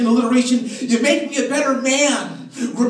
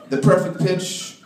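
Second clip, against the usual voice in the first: slow sultry; 10 semitones lower, slower than usual. Acted.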